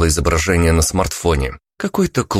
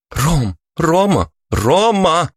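rising, louder calls of his name; calling out; 12 semitones higher, 3 dB louder, much slower than usual. A narrator's reading. Woman calling Roma back to reality, urgent calls. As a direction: snap him out of a daze, calling higher and louder.

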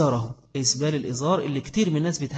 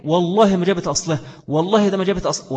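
mock lying trader; 4 semitones higher, 5 dB louder than usual. Preacher voices lying trader swearing.

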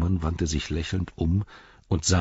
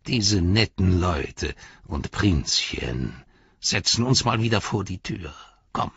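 sarcastic; slower than usual. Acted. Saruman sneers, slow.

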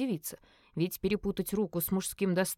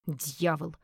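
plain reading voice

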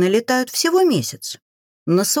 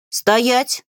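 growled command; 6 semitones higher than usual. A narrator's reading. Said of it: "рыкнула я".

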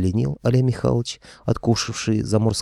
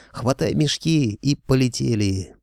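calling out; 5 semitones higher than usual. A narrator's reading. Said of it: "заорал я".

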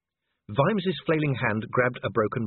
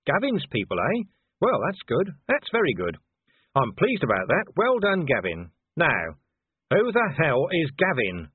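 a hint of a sarcastic, exasperated old copper; lightly voiced irritable Vimes; 3 semitones higher than usual. Vimes's voice in dialogue.

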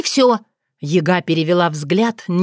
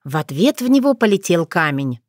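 plain reading voice

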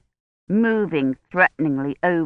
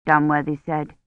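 ordinary delivery, nothing marked

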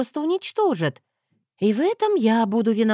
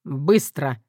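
lower, firm bark; barked order; 4 semitones lower than usual. Acted. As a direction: snap one word at her. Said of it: "рявкнул я".

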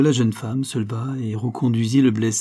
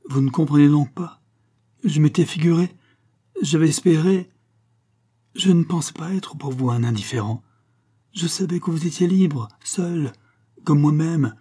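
anguished outburst; 5 semitones higher, 3 dB louder than usual. Acted. Heartbroken lover bursts out.

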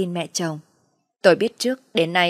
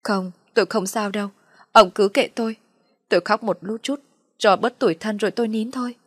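higher, mildly tearful martyr act; tearful self-pity; 3 semitones higher than usual. Acted. Wife telling husband to leave her be, tearful self-pity. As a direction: brush off concern while playing hurt. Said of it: "Bà lắc đầu mà rằng".

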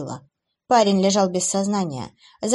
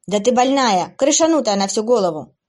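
louder, heated yell of rage; angry shout; 3 semitones higher, 5 dB louder than usual. Acted. Abby trapped in a cage, yelling angrily at the demoness. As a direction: spit the insult out in fury. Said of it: "зло, зло прокричала Эбби".

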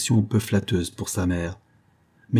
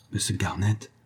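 softer, discreet address; low voice; 5 dB quieter than usual. A narrator's reading. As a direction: quietly get his attention. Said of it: "dit-elle à voix basse". (à voix basse)

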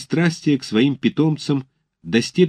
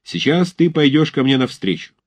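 shouting drill sergeant; 3 semitones higher than usual. Acted. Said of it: "приказывает Тучапский".

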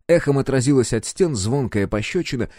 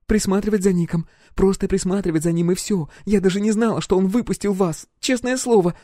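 put-on high young woman on the verge of tears; high pleading girl; 10 semitones higher than usual. Roxy swears to the captain, high pleading.

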